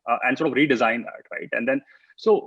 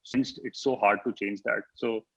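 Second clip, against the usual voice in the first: breaking up. Real, not acted. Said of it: "sorry, you're breaking up again".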